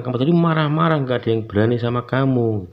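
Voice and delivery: insisting. Retold or imitated. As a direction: press the point as the neighbours. Neighbours insist he was angry. (menirukan tetangga yang ngotot menuduh)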